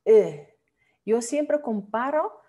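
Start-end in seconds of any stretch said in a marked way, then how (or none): 0.0-0.6 "E" dicho entre u y e, labios redondeados; Dutch u sound. Shown as a demonstration. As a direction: sonido "E" redondeado como la u holandesa. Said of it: "como entre U y E". (vocal "E" entre u y e)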